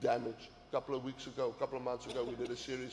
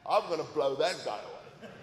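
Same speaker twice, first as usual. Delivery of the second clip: laughing. Retold or imitated. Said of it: "when I'm angry".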